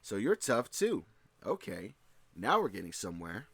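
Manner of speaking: intrigued, pitch leaping up at first; warming to a challenge with a smile; appreciative interest. Acted. Goku to a tougher opponent, intrigued and pleased. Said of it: "replaced by a sharp, focused interest".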